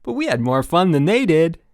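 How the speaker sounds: cheery counselor insisting; brightly. A narrator's reading. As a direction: sell the fun. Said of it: "said Chip brightly".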